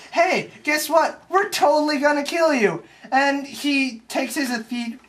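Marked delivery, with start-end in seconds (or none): 0.1-2.8 playful spooky menace; mock ghost threat. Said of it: "And they're like".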